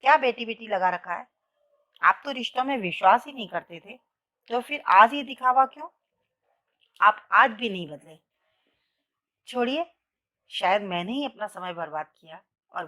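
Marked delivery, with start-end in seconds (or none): 0.0-9.9 put-on louder, higher angry outburst at the old teacher; a woman yelling at her old sir in anger; angry shout. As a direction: let the hurt burst out loud. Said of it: "जोर से चिल्लाई".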